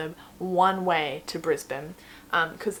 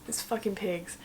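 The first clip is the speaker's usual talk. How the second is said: softer, under-the-breath these fucking pigs; muttered repeat; 6 dB quieter than usual. Retold or imitated. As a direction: drop it down to a grumble.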